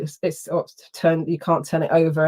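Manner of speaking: ordinary talk, nothing marked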